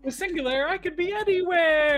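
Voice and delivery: commercial voice. Retold or imitated. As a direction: sell it like a dreamy TV ad. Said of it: "used to be the commercial".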